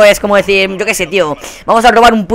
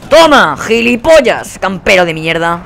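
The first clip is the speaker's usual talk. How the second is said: gloating yell; 2 semitones higher, 3 dB louder, slower than usual. Real, not acted. Taunting a killed camper.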